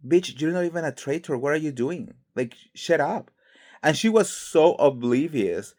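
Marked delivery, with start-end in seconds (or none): 0.1-3.3 exasperated retort. Retold or imitated. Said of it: "I was like".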